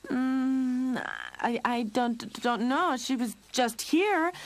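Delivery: high, nervous stammer; flustered stutter, pitched high. A narrator's reading. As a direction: stumble over words, caught out. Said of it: "Lionel was stuttering".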